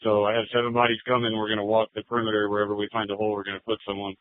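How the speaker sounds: officer speaking over the radio; thin, filtered radio voice; police radio. Real, not acted.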